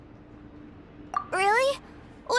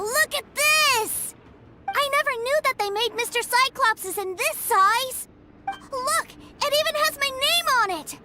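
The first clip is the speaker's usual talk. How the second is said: high, gushing over a new toy; bubbling excitement, pitched up; excited delight; 4 semitones higher than usual. Acted. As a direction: squeal with delight at the gift. Child-like delight over toy souvenir.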